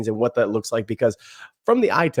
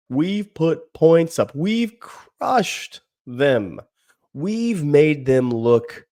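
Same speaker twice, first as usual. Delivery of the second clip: slow, smug mocking of a rival fan; lightly voiced gloating fan, drawn out; a hint of a boastful Gators fan; mock Florida fan; slower than usual. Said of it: "I'm being Florida Gators right now".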